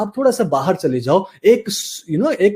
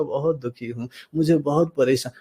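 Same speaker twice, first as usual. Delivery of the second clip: acted gloom, lower and softer; low, dejected voice; 3 semitones lower, 6 dB quieter than usual. Shown as a demonstration. Coach showing how an unhappy person sounds, low dejected voice. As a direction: let the voice droop as if miserable. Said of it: "modality है voice का, वो भी कम होगा".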